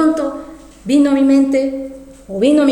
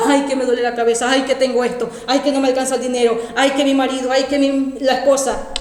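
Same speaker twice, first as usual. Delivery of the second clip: imitación leve de quejas encadenadas; quejándose. Acted. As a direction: enumera quejas con un "ay" delante. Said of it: "quejarnos, quejarnos". (lamento quejumbroso, apenas actuado)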